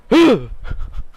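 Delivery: sharp, sudden gasp of excitement; excited gasp. Retold or imitated. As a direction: suck in a breath with anticipation. Acts out his excited reaction.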